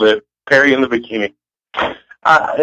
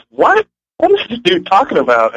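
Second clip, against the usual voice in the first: surprised; 4 semitones higher than usual. Retold or imitated. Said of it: "when you were like".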